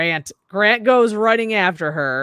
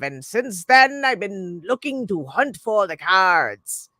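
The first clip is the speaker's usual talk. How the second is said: crazy lady. Retold or imitated. Crazy lady telling cursed backstory.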